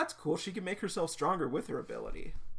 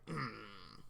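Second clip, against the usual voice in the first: low, quiet grumbled "mm"; low grumble; 5 semitones lower, 9 dB quieter than usual. Acted. Girl with a hard glare at the others, low grumble. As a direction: grumble wordlessly under your breath.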